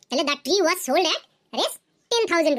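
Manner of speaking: very slow, word by word for students to copy; slow dictation. Shown as a demonstration. Teacher reading an example to students, very slow and deliberate. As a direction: spell it out slowly like dictating to a class. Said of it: "teacher dictates example sentence".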